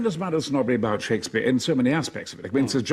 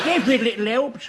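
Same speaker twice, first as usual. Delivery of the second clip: ad voiceover; 5 semitones higher than usual. Pretend. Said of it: "give me that voiceover".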